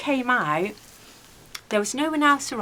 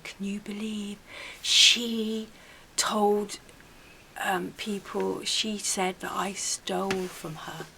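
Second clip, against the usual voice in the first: hushed, slow whisper of a two-faced neighbour; whispery gossip; 6 dB quieter, slower than usual. Retold or imitated. Woman spreading rumours about the narrator, hushed whisper. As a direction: breathe it like a secret being spread. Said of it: "a very whispery voice".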